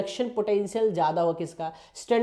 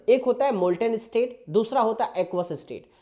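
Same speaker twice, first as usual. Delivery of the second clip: slow explaining; slower than usual. Shown as a demonstration. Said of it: "आराम आराम से भी बोल रहा हूँ मैं".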